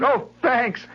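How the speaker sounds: put-on high, loud small-boy thanks; deflated little boy. Boy thanks the girl, pretending that's all he wanted. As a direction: say it as if satisfied.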